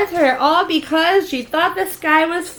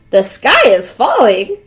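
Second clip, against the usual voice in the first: king asking; 3 semitones lower, 5 dB louder than usual. Acted. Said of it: "the king asked".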